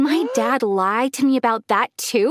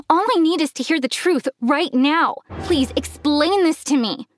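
pitched-up, insistent plea; begging; 5 semitones higher than usual. Acted. Daughter demands the truth from her dad, begging. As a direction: press earnestly for the truth. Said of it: "I begged him".

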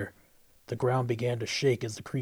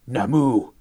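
calling out; 7 dB louder than usual. Acted. Summoning creature by name.

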